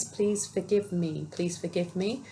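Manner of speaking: slow, drawn-out plea; gentle pleading. Acted. Voicing a wound asking to be looked at, gently pleading.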